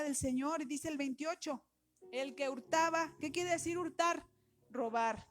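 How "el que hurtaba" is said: loud verse. Acted. Reads verse loudly.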